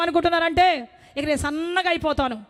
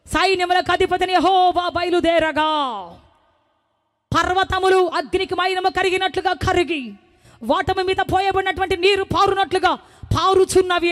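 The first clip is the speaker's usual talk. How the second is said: proclaimed verse. Shown as a demonstration. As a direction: declare the verse over the music. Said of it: "చెప్పాలి గట్టిగా".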